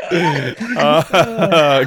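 gasped out through laughter; real laugh breaking the words. Real, not acted. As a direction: say it while still cracking up. Recovering from laughing fit.

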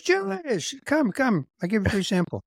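high, eager mock Israeli hawker; hammed-up high street seller; pushy salesman.

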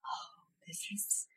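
hushed, unvoiced gossip whisper; imitated whispering. Mother imitating other parents across the court, whispering. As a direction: whisper it like onlookers murmuring among themselves.

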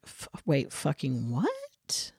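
hushed, breathy disbelief under the breath; stunned whisper. Retold or imitated. Imagining the photos, a shocked whispered what. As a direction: whisper it like time just stopped. Stunned reaction in retold moment.

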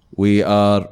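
low, slightly robotic bad-actor villain; robotic villain imitation. Friend mimicking the game's badly acted villain, lightly robotic. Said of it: "أنا ما عرفت قلده زين. جبتها روبوت".

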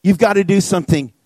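retold desperate prayer, mildly intense; crying out to God. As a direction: plead with God, then let it drop. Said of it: "I'm crying out to God".

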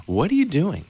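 high puzzled question; puzzled dad. Retold or imitated. Dad asking mom about rinsing the steak, puzzled. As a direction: ask in alarm.

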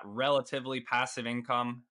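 "relatively" lifted in pitch and leaned on; stress on relatively. Real, not acted. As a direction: lean on the word "relatively" as a caveat. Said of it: "I want to emphasize the word relatively".

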